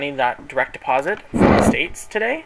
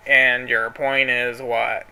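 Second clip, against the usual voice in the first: sassy comeback; 2 semitones lower, much slower than usual. Retold or imitated. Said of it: "I'm freaking out".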